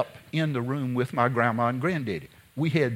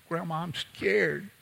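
put-on scared child; 4 semitones higher, 4 dB quieter, slower than usual. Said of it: "I said".

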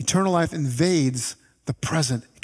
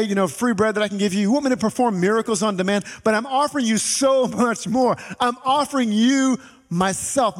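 voicing Jesus; 4 semitones higher than usual. Pastor voices Jesus speaking.

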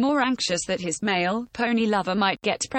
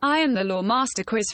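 female robot voice. Acted. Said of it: "female robot voice".

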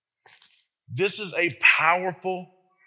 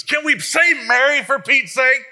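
louder and higher, fed up; exasperated aside; 9 semitones higher, 7 dB louder than usual. Real, not acted. Preacher to the congregation, exasperated. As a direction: throw up your hands at the crowd.

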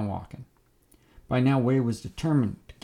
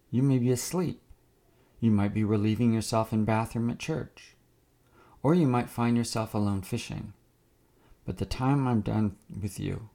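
calm haunting voice. Acted. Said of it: "in a calm yet haunting voice".

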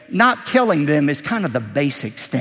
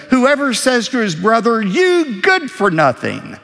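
raised quoted insult; 7 semitones higher, 4 dB louder than usual. Acted. Quoting an insult in scripture.

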